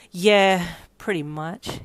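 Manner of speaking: drawn-out "yeah" dropping away, resigned; sighing. Acted. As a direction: sigh it out, letting it fall. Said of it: "you sighed".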